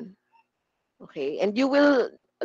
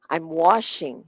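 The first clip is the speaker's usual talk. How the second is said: WASHING strong, "I'm" light; stress on WASHING; 2 semitones lower than usual. Shown as a demonstration. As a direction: glide over "I'm", hit "washing". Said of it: "Washing yung malakas".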